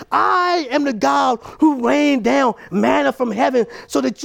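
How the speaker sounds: voice of God. Acted. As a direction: proclaim it as God calling his people. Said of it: "God is saying to them".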